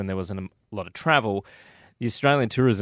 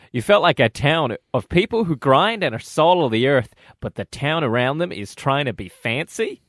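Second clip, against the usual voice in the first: put-on American accent; 3 semitones higher, 3 dB louder than usual. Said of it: "I'll see if I can do an American accent".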